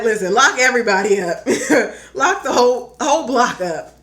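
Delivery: loud, fast, fed-up demand to lock everyone up; hammed-up outrage, punching lock; mock furious rant. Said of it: "I could hear how absurd I sound".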